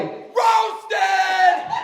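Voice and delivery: put-on high, drawn-out kid's yell; top-of-lungs scream. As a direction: scream it like a gloating little kid. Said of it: "scream "roasted" at the top of his lungs".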